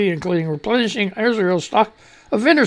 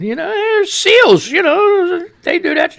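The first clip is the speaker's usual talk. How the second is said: 1 excited build-up; 12 semitones higher, 5 dB louder, slower than usual. Real, not acted. Hyping spiders as Navy SEALs.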